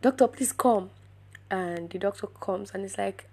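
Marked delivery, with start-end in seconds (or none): 0.0-0.9 mildly raised, urgent mock call; retold scream. Junior doctor calling in a senior doctor, mild mock scream. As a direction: call for help, a little higher. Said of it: "he just screams".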